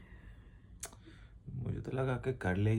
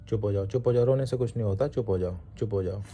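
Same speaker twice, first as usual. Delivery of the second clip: loud, insistent hush me; urgent hushing; 7 dB louder than usual. Real, not acted. Husband hushing his crying wife, loud and insistent. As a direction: keep repeating hush, firm and loud.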